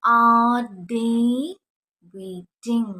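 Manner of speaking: a loud WHY, then drawn out; loud model sentence. Shown as a demonstration. Teacher calling out the question to students, loud. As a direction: call out the question for the class. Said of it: "അതെങ്ങനെ നമ്മൾ ഇംഗ്ലീഷിൽ പറയും?".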